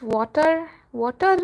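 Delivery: "water" with a rolled R at the end; "water" ending on a trilled R. Shown as a demonstration. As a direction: roll the final R of "water", Indian-style. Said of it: "that was a big roll of the R".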